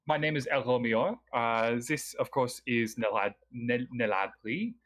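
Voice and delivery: lightly voiced El Romior, polite host; lightly voiced scholar NPC.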